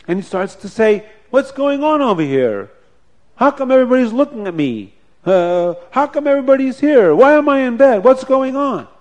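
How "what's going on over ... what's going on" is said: bewildered waking. Acted. Dying father wakes, bewildered.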